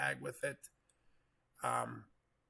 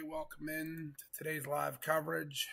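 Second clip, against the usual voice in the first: hoarse, gravelly voice from a cold; rough, gravelly sick voice; 3 semitones higher than usual. Real, not acted. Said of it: "Please ignore the gravelly voice".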